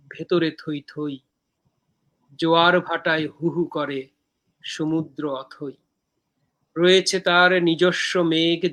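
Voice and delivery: slow, measured verse with pauses between lines; poem recitation. Acted. Poet reciting own poem from Dehokabyo to viewers, measured recitation.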